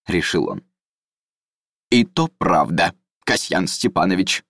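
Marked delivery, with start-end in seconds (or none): 1.9-4.4 compliant. Acted. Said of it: "неожиданно покладисто согласился исправник".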